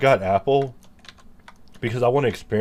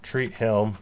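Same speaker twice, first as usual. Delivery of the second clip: slow, flat robot voice; slower than usual. Pretend. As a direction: speak like an old speech synthesizer. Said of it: "That's my robot voice".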